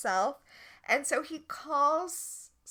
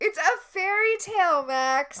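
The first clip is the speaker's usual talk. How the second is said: exasperated; 8 semitones higher, 7 dB louder than usual. Real, not acted. Exasperated reply to co-host.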